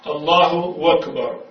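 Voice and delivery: slow, loud الله أكبر with no glottal stop; hamza dropped. Shown as a demonstration. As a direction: slide الله into أكبر as "Allahu-wakbar". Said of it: "بدون الهمزة".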